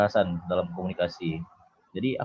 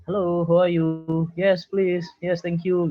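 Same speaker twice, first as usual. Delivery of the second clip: higher, slow, very polite English greeting; mock-polite English small talk; friendly foreigner; 9 semitones higher, slower than usual. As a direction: play the warm, courteous Westerner. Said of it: "sangat ramah".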